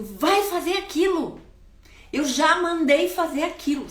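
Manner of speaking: put-on barking orders at a child, high and loud; angry shout. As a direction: yell it like a furious father. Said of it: "E grita".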